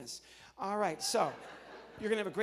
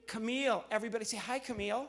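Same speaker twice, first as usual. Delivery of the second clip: ordinary delivery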